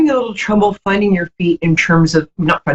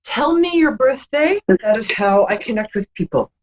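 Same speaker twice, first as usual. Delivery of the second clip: projecting; 3 semitones higher than usual. Shown as a demonstration. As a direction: project it so the caller hears. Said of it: "Oh, project".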